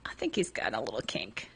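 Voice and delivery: conspiratorial whisper. Real, not acted. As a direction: lean in and whisper it. Gossiping about profile.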